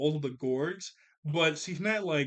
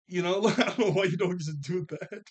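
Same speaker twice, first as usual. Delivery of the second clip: higher, louder, laughing exasperation; laughing disbelief; 4 semitones higher, 4 dB louder than usual. Real, not acted. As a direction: laugh through your bafflement.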